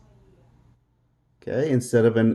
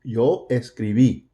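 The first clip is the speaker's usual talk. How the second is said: "escribí" with the accent on the last syllable, bí; stress final í. Shown as a demonstration. Teacher shows where the written accent falls, stress on final í of "escribí". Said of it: "You're gonna raise your voice".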